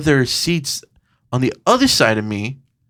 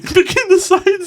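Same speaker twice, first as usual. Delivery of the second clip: mock high; slower than usual. Mocking the other moviegoers.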